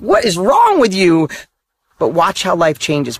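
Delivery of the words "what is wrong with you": mock freaked-out. Coworkers freaking out at someone's new enthusiasm, incredulous. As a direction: stretch it out in exaggerated disbelief. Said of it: "people will freak out".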